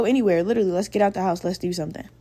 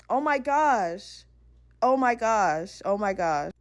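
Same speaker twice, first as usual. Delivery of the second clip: slow, softer stunned repetition; embarrassed; 5 dB quieter, slower than usual. Retold or imitated. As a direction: replay the mortification under your breath. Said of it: "how embarrassed I was".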